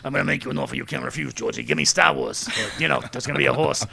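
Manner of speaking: quick, put-on Italian mafia voice; hammed-up Italian-American mobster; mafia boss. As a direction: make a mock mob threat. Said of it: "Start playing Italian mafia music".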